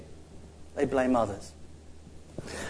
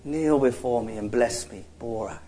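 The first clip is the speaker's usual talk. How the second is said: much softer, lower solemn command; hushed voice of God; 5 semitones lower, 9 dB quieter than usual. Pretend. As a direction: breathe it as a holy hush. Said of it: "Or maybe God just says".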